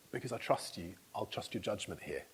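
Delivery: softly acted, trusting agreement; quiet trust. Voicing his trusting kids.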